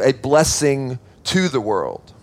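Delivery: slow and settled, falling at the end; slowly stressing a blessing to the world; slow emphatic point. Shown as a demonstration. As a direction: let point two land slowly. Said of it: "We'll break that up into two points".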